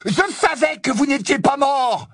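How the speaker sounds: high, bellowed retort; beuglement. Acted. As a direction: bellow to drown out her voice. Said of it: "beugla Ron". (réplique beuglée pour dominer sa voix)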